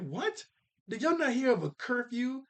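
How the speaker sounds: put-on high, scolding kid voice; Betty's voice. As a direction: play Betty asking if they never heard of curfew. Betty voiced in retold episode.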